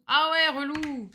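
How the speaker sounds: slow, loud, drawn-out exasperation; annoyed groan. Real, not acted. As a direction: stretch out your irritation, up high. Annoyed at game mechanic.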